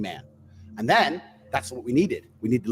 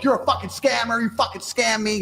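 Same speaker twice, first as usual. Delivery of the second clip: mock angry man; 8 semitones higher than usual. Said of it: "he'd go like".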